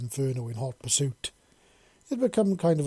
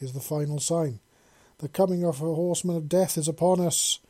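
louder doom-laden proclamation; dramatic recital; 2 semitones higher, 4 dB louder than usual. Acted. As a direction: announce the apocalypse like a prophet. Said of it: "launching into a full-on dramatic recital".

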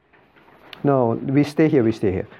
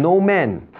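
firm, weighted "No man"; emphasis on NO MAN; 3 semitones higher than usual. Shown as a demonstration. Teacher repeating the verse's key words, emphatic NO MAN. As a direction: land heavily on "No man". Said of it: "Can you see the emphasis again".

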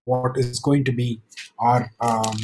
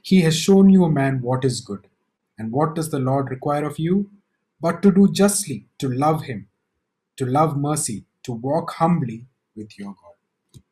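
calm reply. Acted. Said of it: "his reply is so calm".

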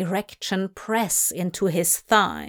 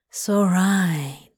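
whisper. Acted. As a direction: breathe it gently. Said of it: "Crowley whispered again".

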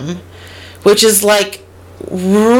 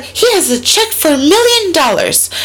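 excited quote; 10 semitones higher than usual. Retold or imitated. Quoting the woman, excited.

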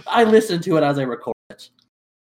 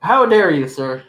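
stagey period drama; slower than usual. Acted. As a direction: play an outraged Victorian gentleman. Mock outrage over forgotten birthday.

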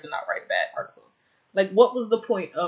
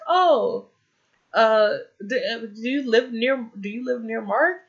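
high suspicious voice; 5 semitones higher, 3 dB louder than usual. Retold or imitated. Leslie voiced, suspicious question.

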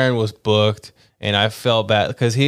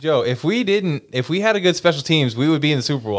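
emphatic, higher-pitched insistence; worked-up yelling; 4 semitones higher, faster than usual. Real, not acted. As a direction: make the point insistently, pitched up. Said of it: "Griffin, why are you yelling?".

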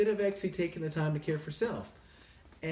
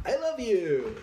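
emphatic loving reply; 6 semitones higher, 5 dB louder than usual. Retold or imitated. Answering hate with love.

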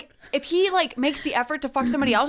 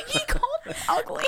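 laughing; 13 semitones higher, faster than usual. Real, not acted. Mock complaint, laughing.

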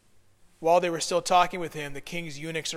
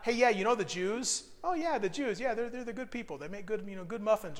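mock sweet talk; 4 semitones higher, 3 dB quieter than usual. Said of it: "he didn't say that".

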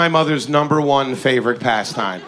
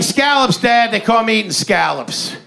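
selling it; 7 semitones higher than usual. Retold or imitated. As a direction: pitch it like great news. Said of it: "But I was like".

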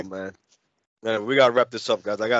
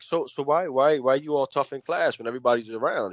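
quiet, lower, cool questioning; retold mad cool; 3 semitones lower, 5 dB quieter than usual. Classmate coolly challenging the tough talker, calm and low. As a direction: imitate someone coolly asking why. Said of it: "he was mad cool about it".

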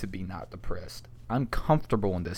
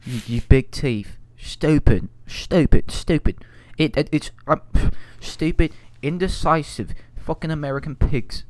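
mock angry rant; 2 semitones higher, 6 dB louder than usual. Mock British insulting Americans.

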